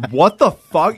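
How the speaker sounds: high startled what the fuck; retold stunned outburst; shocked. Shocked friend reaction retold.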